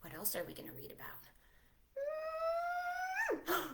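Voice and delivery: soft hushed whisper; hushed storytime whisper; gasp and whisper. Acted. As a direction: whisper like it's a secret. Whisper teasing.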